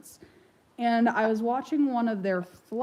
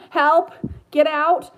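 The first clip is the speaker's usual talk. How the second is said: louder, higher and slow spooky cry; parrot's fake demon wail; mock demon parrot; 5 semitones higher, 6 dB louder, slower than usual. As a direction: drawl it like a haunted bird. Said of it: "he thinks that he's hilariously going to say the".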